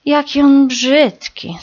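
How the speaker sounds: high, slow, loud mocking call; a little bird shouting a taunt; chick calling out. A narrator's reading. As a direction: jeer at him across the branch. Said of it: "zawołało jedno".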